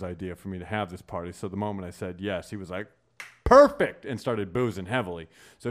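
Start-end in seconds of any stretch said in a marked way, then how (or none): 3.4-4.0 high, loud delighted perfect; eager agreement. Retold or imitated. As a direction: say it like party's on. Quoting Rye agreeing to party.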